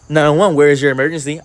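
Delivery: lightly voiced dispatcher; 911 operator. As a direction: answer like a call operator.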